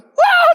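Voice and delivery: high, loud burst of pretend bawling; mock wailing cry. Emperor crying at the farmer's answer, mock wail. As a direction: break into a hammed-up wail. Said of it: "dia nangis lagi".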